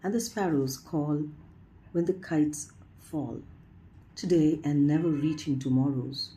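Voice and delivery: measured poem reading with pauses between phrases; poetry recitation. Acted. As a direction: lift each phrase opening, then let it fall. Reads a poem aloud.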